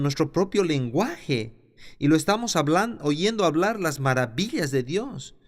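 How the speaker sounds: pasaje asombrado de la multitud, más agudo al principio; astonished Jerusalem crowd. Retold or imitated. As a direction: voice the amazed locals mocking the Galileans. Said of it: "Y yo puedo hablar como ellos". (la gente de Jerusalén asombrada, ligeramente imitada)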